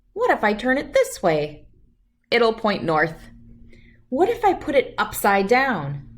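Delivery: put-on calm, clear storybook reading for kids; reading a story aloud. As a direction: read it like bedtime story time. Reads picture book aloud.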